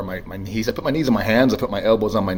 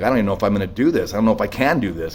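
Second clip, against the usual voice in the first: panicked rush; 4 dB louder, faster than usual. Retold or imitated. Panicked thought with gun.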